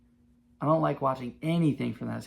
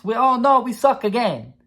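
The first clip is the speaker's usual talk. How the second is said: higher, louder mock panic; despairing fan; 8 semitones higher, 6 dB louder than usual. Saints fan imagining another losing year, mock despair. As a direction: wail it like the season is already lost. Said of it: "as a Saints fan thinking to yourself".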